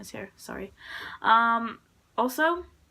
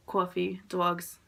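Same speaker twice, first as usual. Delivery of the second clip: "coffee" and "dogs" with New York vowels; rounded New York "aw" in "coffee" and "dogs"; light New York accent on "coffee, dogs"; 2 semitones lower, much slower than usual. Shown as a demonstration. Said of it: "I hit up the New York accent".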